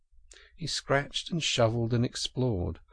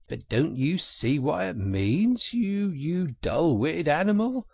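higher, exasperated outburst; raised, impatient scolding; impatient cry; 7 semitones higher, 4 dB louder than usual. A narrator's reading. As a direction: cry out at a slow-witted friend, pitch climbing. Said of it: "cried the Rat impatiently".

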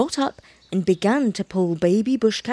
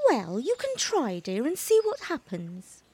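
quiet and tender, softer; soft mother voice; 4 semitones higher, 7 dB quieter than usual. A narrator's reading. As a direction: soothe the little one gently. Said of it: "said Mother Bush Cat".

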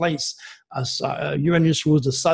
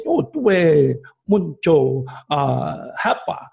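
romantic Latin lilt. Shown as a demonstration. Astrologer showing the host how Leo languages sound romantic, a slow loving lilt. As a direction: croon it like a lover's compliment. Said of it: "It makes the French and the Italian a romantic language".

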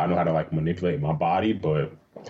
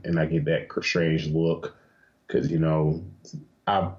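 usual speaking voice

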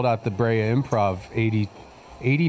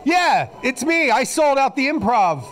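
much higher, louder triumphant boast; triumphant reveal; 14 semitones higher, 4 dB louder than usual. Acted. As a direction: gloat as the star unmasked.

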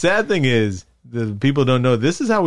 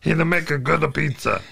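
a hint of a heavy Italian wrestler voice; fat wrestler voice. Friend showing off silly voices after dinner, lightly voiced heavy Italian. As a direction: lightly put on a heavy pizza-man voice. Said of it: "I'm using the fat voice".

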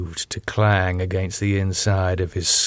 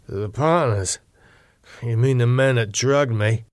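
slurred speech. Acted. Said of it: "David's voice sounded slurred".

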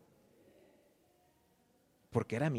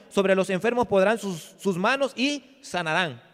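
louder, proclaiming Bible reading voice; scripture reading; 5 semitones higher, 8 dB louder than usual. Acted. Preacher reading Mark sixteen to the congregation, louder proclamation. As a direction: declaim the verses to the church.

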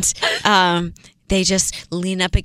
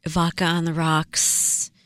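soft, slow, softer seductive sales pitch; sultry pitch voice; 4 semitones lower, 5 dB quieter, much slower than usual. Acted. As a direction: lure them in, low and slow. Selling the glamorous model life.

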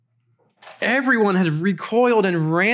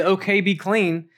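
offhand command; 3 semitones higher than usual. Acted. A healer keeping his distance from the leper, offhand command. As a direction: toss it off as a hands-off instruction. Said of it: "doesn't just keep his hands behind his back".

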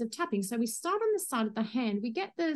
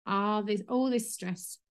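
slow tapping phrase; slower than usual. Shown as a demonstration. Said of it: "Just tapping on the side".

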